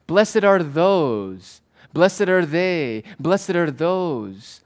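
slow, drawn-out proclamation; stately declaration, a step removed; third-person address. Shown as a demonstration. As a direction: proclaim it out to the multitude, stretching each phrase. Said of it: "He speaks in the third person".

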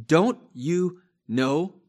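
exasperated, drawn-out question; frustrated rebuke. Acted. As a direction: scold them like a frustrated apostle. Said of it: "you can hear the frustration in the Apostle Paul's voice".

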